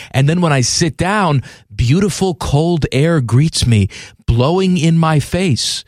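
steady radio ad read. Acted. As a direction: read the sponsor spot straight. Host reads a sponsor ad.

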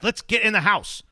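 exasperated hushed yell; whisper yelling. Retold or imitated. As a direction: scold a puppy under your breath. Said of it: "whisper shouting at him".

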